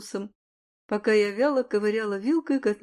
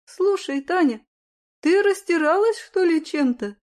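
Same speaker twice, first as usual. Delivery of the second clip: suspicious; 6 semitones higher than usual. Acted. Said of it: "подозрительно потягивая носом".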